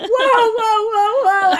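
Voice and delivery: high, loud alarmed whoa; startled whoa. Retold or imitated. Husband jolted by her scream, high loud whoas. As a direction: jump back in alarm. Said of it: "Brendan was like".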